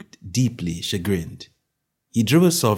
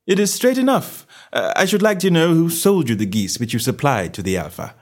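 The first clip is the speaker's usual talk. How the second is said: high opening, settling as it goes; a hint of a reasonable gentleman detective; lightly voiced detective; 9 semitones higher, 4 dB louder than usual. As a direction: press the enquiry civilly. Holmes answers the salesman.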